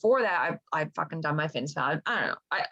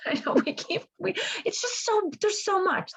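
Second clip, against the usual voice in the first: laughing; 12 semitones higher than usual. Real, not acted. Laughing over a spoiler.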